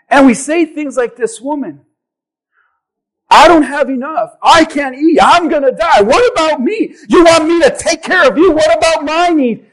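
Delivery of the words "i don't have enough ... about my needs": mock protest, building in pitch; acted, insistent me-first whining; self-pitying complaint. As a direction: complain harder with each line. Preacher acts out self-pitying complaint.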